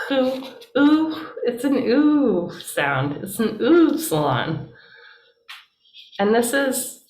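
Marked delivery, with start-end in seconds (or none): 0.1-3.2 high, rounded "ooh" like German umlaut U; French or German U. Shown as a demonstration. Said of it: "more like a French U or a German U".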